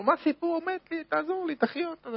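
high, anguished begging; mother pleading with the rebbe to revive her son; desperate plea. Acted. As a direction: beg in disbelief, voice pitched high. Mother pleads over dead child.

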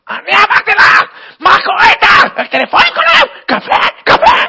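screeching high, loud tirade; escalating hammed-up screams; furious manager. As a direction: berate the secretary at full volume. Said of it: "מנהל המכירות היה עצבני".

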